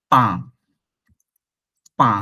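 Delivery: পা with the French "ain" vowel; French pronunciation. Shown as a demonstration. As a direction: say পা, not English "pain". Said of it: "But ফ্রেঞ্চে এটা হবে". (ফরাসি উচ্চারণে পা, "পেইন" নয়)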